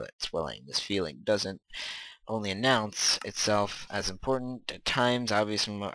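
even, measured book narration; reading aloud. A narrator's reading. Gamer reading chapter one aloud, even narration. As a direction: read it out steadily as narration.

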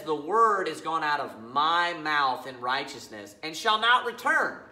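deliberate, weighted scripture quote; very emphatic. Acted. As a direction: quote God slowly and firmly. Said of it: "by being very emphatic".

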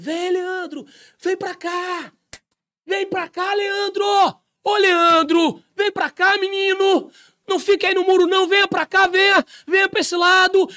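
shouting from far across the wall; angels calling. Acted. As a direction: call him across the wall like eager angels. Angels calling him over.

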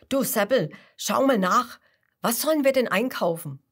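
bright eager Kasper calling his friend. A narrator's reading. Kasper voiced in story.

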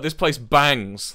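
slow, loud mock quote; mock enthusiasm, drawn out and loud; teasing imitation. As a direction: tease a friend by quoting them slowly. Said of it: "you were like".

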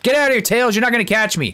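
lightly voiced cartoon villain taunt; bad Eggman impression. Eggman shooing Tails away, lightly mocked villain. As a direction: taunt like a half-hearted villain. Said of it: "That's my worst Eggman impression".

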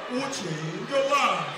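very slow, shouted pulpit promise; slow preacher shout. Acted. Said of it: "which church when the pastor they sound like this".

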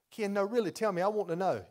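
high, loud mock plea; mock pleading. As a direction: play a congregant begging to hear it. Mock pleading church member.

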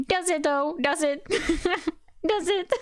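high laughing disbelief. Real, not acted. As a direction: laugh through the question.

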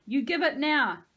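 loud, high and insistent; shrieked demand. A narrator's reading. Boy pelting them demands the mask, shrieked demand. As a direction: yell it as an order.

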